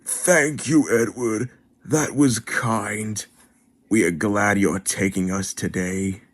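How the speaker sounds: pleased coaches. Acted. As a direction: thank him sweetly. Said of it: "The coaches were very pleased".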